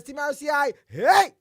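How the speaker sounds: high, loud team shout; shouted cheer. Retold or imitated. Listener's cheer shouted by host. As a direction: yell the team call. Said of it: "Kelvin Charles says".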